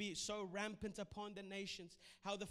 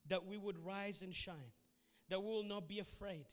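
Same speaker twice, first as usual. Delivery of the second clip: prayer. Acted. Prayer over music.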